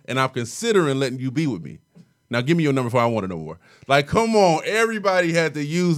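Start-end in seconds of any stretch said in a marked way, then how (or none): 0.1-3.6 smooth pickup line. Retold or imitated. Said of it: "you hollered at a girl using the Fresh Prince line".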